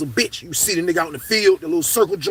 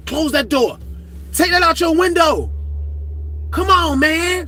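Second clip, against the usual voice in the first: lightly voiced guard giving orders from afar; hint of a cop calling out; mild bossy guard; 9 semitones higher, 3 dB louder, slower than usual. Guard giving orders from across the pod, mild bossy call. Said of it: "She started talking like that".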